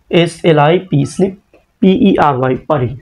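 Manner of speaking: স্লিপ and পারি as two separate parts, each spelled first; broken into syllables. Shown as a demonstration. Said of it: "ভেঙে ভেঙে উচ্চারণ করব".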